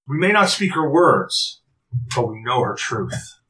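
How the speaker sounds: light, playful, slow mystic line; whimsical. Acted. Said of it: "in her very whimsical way".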